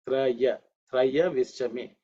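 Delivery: "Traya" with a clear "a" after the r; common mispronunciation. Shown as a demonstration. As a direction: say "Trayavishchame" opening on "tra-ya". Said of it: "But actually it's not correct".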